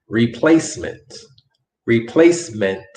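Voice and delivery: "Replacement" carefully, ending on a released t; final consonants pronounced. Shown as a demonstration. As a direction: set off "ment" in "Replacement" and finish with a crisp t. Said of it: "make sure that you pronounce your consonantes".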